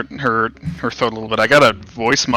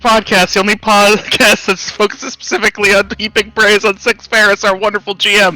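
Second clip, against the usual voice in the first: higher hyped host intro; podcast host voice; 8 semitones higher than usual. Pretend. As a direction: announce it like a radio show. Rival mock podcast intro.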